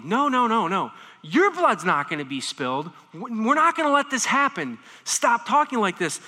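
loud, firm protest as Peter. Retold or imitated. Preacher voicing Peter protesting loudly. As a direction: push back hard against the plan. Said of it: "responds strongly".

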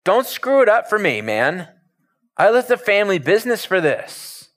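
high-pitched, aggrieved protest; Peter. Acted. Peter protecting what he gave up, protesting. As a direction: plead your own stake, pitch climbing. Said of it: "Peter's like".

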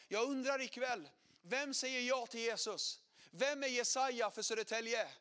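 loud, rising preacher's call; preaching to the crowd; preacher's challenge. Retold or imitated. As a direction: hammer each question like a preacher.

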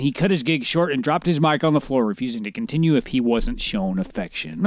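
lightly projected article reading; news article read-aloud. Acted. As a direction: read the story out to your co-host.

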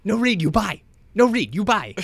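put-on high, loud caricature Chinese accent; mock an old Chinese man's accent, high and shouted. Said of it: "like, the old Chinese man".

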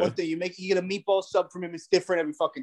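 light Italian-American wiseguy bluster; a hint of Italian-American tough talk. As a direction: rant like a Philly Italian uncle. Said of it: "No change in tone".

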